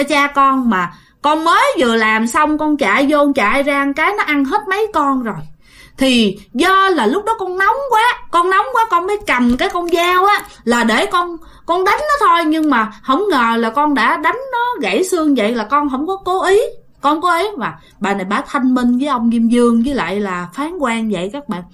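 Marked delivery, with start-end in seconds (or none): 6.0-17.7 high, pleading voice rising in distress; high-strung plea of a scared old woman; anxious pleading. Retold or imitated. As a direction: beg the judge, worked up. Grandma pleading before the judge.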